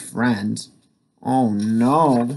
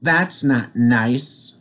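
demo call; 3 semitones higher, slower than usual. Shown as a demonstration.

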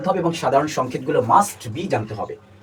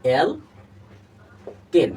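অ্যালকেন stretched out very slowly with long vowels; slowly drawn out; much slower than usual. Shown as a demonstration. Teacher to students, showing the word, very slow and drawn out. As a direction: linger on every syllable of অ্যালকেন. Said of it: "দেখো যে অ্যালকেন দ্বারা কিভাবে".

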